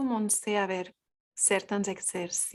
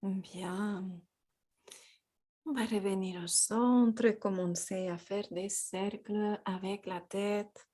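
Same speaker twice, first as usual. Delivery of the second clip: calm, unhurried guidance with long pauses; guided yoga; 4 dB quieter than usual. Real, not acted. Guides a gentle yoga practice.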